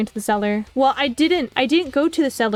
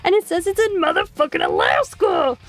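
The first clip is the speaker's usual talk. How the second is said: exasperated retort; 4 semitones higher than usual. Retold or imitated. Retold exasperated argument with agent.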